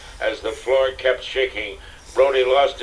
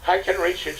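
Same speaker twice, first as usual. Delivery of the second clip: gasping; 9 semitones higher than usual. Acted. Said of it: "she gasped".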